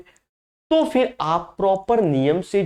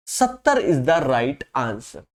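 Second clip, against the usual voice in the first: drawn-out, lower announcement of the answer; slow answer reveal; 5 semitones lower, much slower than usual. Acted. Teacher revealing the answer to the class, slow and drawn out. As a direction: slowly land the final answer.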